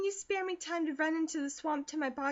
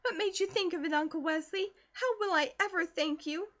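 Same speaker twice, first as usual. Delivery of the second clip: much higher, gushing thanks; breathless delighted gushing, much higher and louder; overjoyed girl; 7 semitones higher, 4 dB louder than usual. A narrator's reading. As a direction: tumble out the joy, much higher. Girl thrilled by lunchbox.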